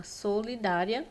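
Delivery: "solidária" stretched out slowly, syllable by syllable; "solidária" slow and measured, with a rise at the end; split into syllables. Shown as a demonstration. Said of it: "separam a palavra dessa forma".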